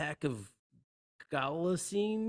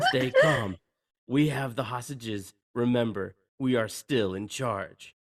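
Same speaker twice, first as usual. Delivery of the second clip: commanding calm; 5 dB louder than usual. Acted. Hans reassuring his men.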